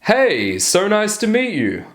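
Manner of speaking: high, supplicating lilt; mock an eager pleaser, pitched right up; high-pitched and fawning; people pleasing. Shown as a demonstration. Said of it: "see how it always goes up".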